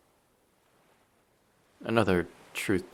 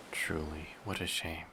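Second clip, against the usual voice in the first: ordinary talk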